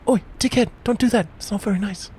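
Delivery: high, scolding Antipodean badger; Australian or New Zealand accent. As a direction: tell them off in a high Aussie accent. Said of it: "I want Australian and or New Zealand".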